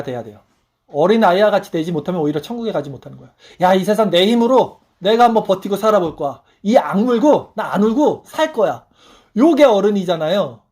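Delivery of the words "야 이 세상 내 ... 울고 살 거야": defiant vow. Retold or imitated. Defiant adult vow, acted.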